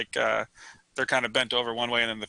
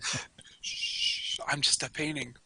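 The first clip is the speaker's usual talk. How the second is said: softer whispered hushing; whispered shush; 5 dB quieter than usual. Pretend. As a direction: soothe like a lullaby. Voicing the painting shushing.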